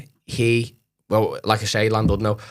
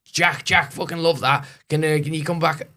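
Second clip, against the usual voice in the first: put-on higher, eager Hull accent; local Hull accent; 6 semitones higher than usual. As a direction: gush like a Hull pub regular, in his accent. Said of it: "I don't know if that's the whole accent".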